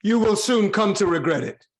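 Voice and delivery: king shouting at the herald to stay back; furious warning shout. Acted. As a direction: draw it out loud as a warning. King threatens herald over suppliants.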